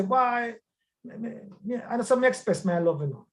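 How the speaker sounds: man voice. Retold or imitated. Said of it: "although I use the man voice".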